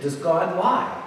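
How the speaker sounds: soft, slow question; gentle questioning. Retold or imitated. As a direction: imitate a preacher quietly leading the boy on. Preacher gently questions the boy.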